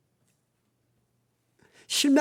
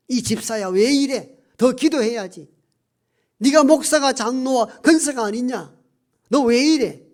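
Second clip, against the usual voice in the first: mock reprimand, higher and louder as it builds; imitated scolding; 3 semitones higher, 5 dB louder than usual. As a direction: scold a church member in an acted, exasperated rebuke. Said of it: "이렇게 야단칠만 하잖아요".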